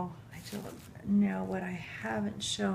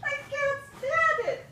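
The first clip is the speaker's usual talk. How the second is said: overwhelmed high-pitched squeak through tears; choked up with emotion, pitch shooting way up; really crying from being moved; tearful; 3 dB louder than usual. Real, not acted. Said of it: "I'm gonna cry again".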